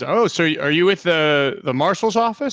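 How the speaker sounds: hesitant. Acted. Worker questioning.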